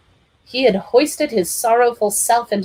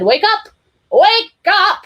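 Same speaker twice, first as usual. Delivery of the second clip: shouted rising call; booming wake up call; loud wake-up call; 12 semitones higher, 7 dB louder, slower than usual. A narrator's reading. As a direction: rouse everyone loudly. Clifford rousing the family.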